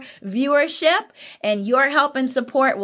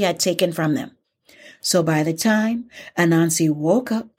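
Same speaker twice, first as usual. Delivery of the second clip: story narration. A narrator's reading. Teacher ends the Anansi tale, settling story narration.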